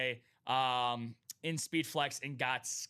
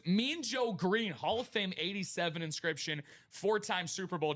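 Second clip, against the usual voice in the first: hype announce; 5 semitones higher than usual. Acted. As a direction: sell the name like a ring announcer. Hyping a headline card.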